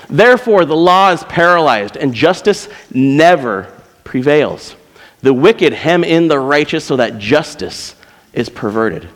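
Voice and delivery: impassioned scripture reading. Acted. Preacher reading a prophet's complaint to God, impassioned. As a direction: cry the prophet's words out to God.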